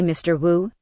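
ordinary talk, nothing marked

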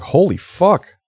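retold outcry in someone's defence; mock appalled protest. Retold bystanders defending him.

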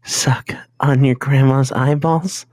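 slow, breathy whisper of a gross question; creepy whisper. Pretend. Host whispering the gross option to the panel, slow. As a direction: whisper it like a dare at a sleepover.

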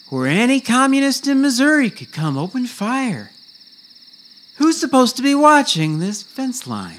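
drill sergeant. Acted. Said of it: "That's me, Sergeant Daniels".

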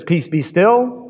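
slow, unhurried and settled; calm command. Acted. Jesus calms the storm.

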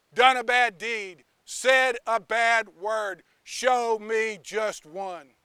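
a hint of a stern judge; powerful voice of justice. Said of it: "loud, powerful voice of justice says this".

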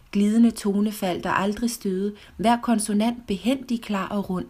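measured poetry reading, slowing in the closing lines; poem recitation. Acted. Reciting Lord Byron's verse on Italian, measured poetic reading. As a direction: recite the verse line by line, drawing out the last words. Reads a translated poem aloud.

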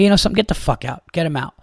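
high sharp outburst, then kicking him out; angry. Retold or imitated. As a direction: lose patience and order him out. Throwing heckler out.

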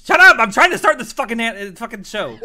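loud laughing outburst; laughing yell. Real, not acted. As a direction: yell at them through laughter. Yells at co-hosts, half laughing.

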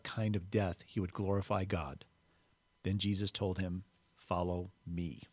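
measured Bible story narration; unhurried reading with lightly voiced dialogue; scripture reading. A narrator's reading. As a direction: read the Gospel aloud, pausing before each quote.

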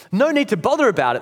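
mildly acted indignation; indignant echo. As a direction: throw it back as a quick, affronted echo. Ghost indignantly echoes the other man.

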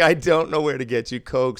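loud, high-pitched retold protest; incredulous refusal. Dealer retelling his reply to a guest, incredulous. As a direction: turn him down in loud disbelief.

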